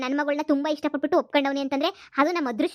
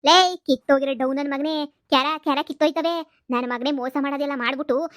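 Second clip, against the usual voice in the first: angry insult. Acted. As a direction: bark out the abuse. Mother insults the groom again.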